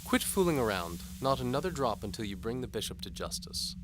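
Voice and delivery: high, teasing lady's voice; seductive noble lady. A narrator's reading. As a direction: tempt him like a sly countess. Antimony speaks.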